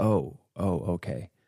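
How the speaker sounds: startled, alarmed, caught-off-guard reaction. Retelling own reaction to being silenced: imitating own alarmed reaction. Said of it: "I remember being very alarmed and going like".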